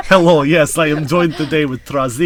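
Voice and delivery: mock-fancy British introduction; hammed-up fancy British accent. Host introduces co-host Trazi on the show, fancy accent. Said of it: "with that accent".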